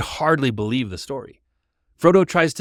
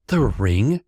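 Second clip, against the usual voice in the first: a touch of breathless surprise, rising; gasped question; 3 dB louder than usual. Acted. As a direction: caught off guard. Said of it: "Frodo gasped".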